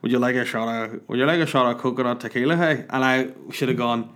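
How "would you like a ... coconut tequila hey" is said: Ian. Retold or imitated. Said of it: "this is fucking Ian sound like this".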